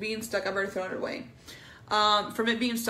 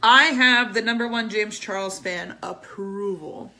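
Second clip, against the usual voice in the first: loud, triumphant announcement; 12 dB louder than usual. Real, not acted. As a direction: crow about the win. Triumphant after daughter's yes.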